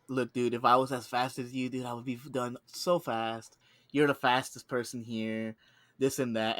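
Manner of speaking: sarcastic flattery, taking your time; mock praise. Needles mad coworker with mock praise.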